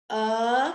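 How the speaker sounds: "P-U-B-L-I-C" as letter sounds, not names; sounded out. Shown as a demonstration. Teacher dictating a spelling word, "P-U-B-L-I-C" sounded out. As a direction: say each sound of "P-U-B-L-I-C" alone, with gaps.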